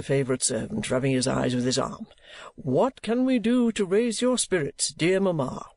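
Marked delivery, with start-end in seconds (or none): 2.5-5.7 put-on high, pleading child voice; little child. A narrator's reading. Child trying to cheer up weeping mamma, high and pleading. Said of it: "says the little child".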